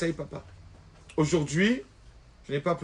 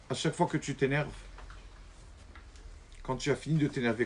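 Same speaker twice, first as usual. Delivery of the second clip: soft, lower and gentle, a father calming his son; gentle fatherly talk; 3 semitones lower, 5 dB quieter than usual. Acted. Father softly counselling his angry son, gentle and low.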